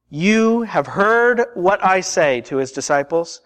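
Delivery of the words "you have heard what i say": slow and deliberate, each word spaced; slow, weighty quote. Acted. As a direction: draw it out solemnly. Jesus' words, repeated for emphasis.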